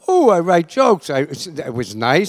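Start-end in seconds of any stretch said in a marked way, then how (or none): 0.1-1.1 higher-pitched pleased little exclamation; lightly acted eager thought; mild mock enthusiasm. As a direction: act out a beginner's pleased realization. Recalls his own thought as beginner.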